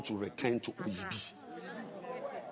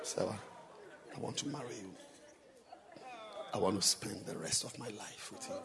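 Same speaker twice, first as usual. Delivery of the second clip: much softer, gentle asking; soft proposal; 11 dB quieter than usual. Shown as a demonstration. Preacher showing Sarah the soft small-voice proposal. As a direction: ask her quietly and tenderly. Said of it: "Love is expressed in a small voice".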